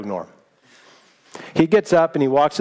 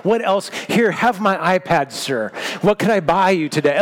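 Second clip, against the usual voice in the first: mock overjoyed giver. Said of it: "so joyful".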